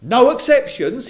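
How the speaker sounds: stretched, ringing "No exceptions"; emphatic no exceptions. Acted. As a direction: hammer down "No exceptions". Preacher punches Paul's words.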